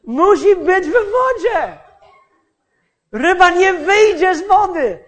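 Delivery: father's insistent admonishing. Retold or imitated. Father to his impatient child while fishing, insistent admonishing. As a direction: lecture the child, building to loud insistence. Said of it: "I on ciągle mi mówił".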